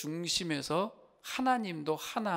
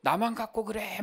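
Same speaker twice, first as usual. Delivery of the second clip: 따지듯; 4 semitones higher, 3 dB louder than usual. Retold or imitated. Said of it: "욥은 따집니다".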